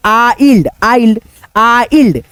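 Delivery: आइल्ड isolated, splitting "aa" from "ild"; sounding out. Shown as a demonstration. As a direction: break down the ending आइल्ड for learners. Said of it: "आई में पढ़ रहे हैं ना". (आइल्ड को तोड़कर बोलना)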